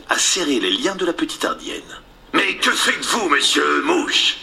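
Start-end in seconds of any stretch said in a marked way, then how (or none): 2.3-4.4 slow drawn-out pirate captain voice; Captain Hook voice. Acted. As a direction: stretch it like the haughty captain. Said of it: "Peter prit cette fois la voix du capitaine".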